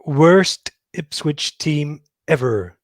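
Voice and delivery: very slow, drawn-out, weary verdict from a nerdy know-it-all; slow, deadpan pronouncement of doom; Comic Book Guy impression. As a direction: sigh it out like the world's most disappointed fanboy. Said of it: "That's my comic book guy impression".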